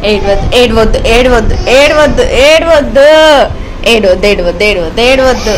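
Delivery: loud, repeated, sing-song hushing; real motherly don't-cry coaxing. Real, not acted. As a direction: hush a crying little one insistently. Mother hushing her crying child.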